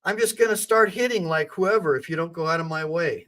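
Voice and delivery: a hint of a fierce mother; determined mother. Mother telling police to move aside, lightly voiced. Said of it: "and I'm like".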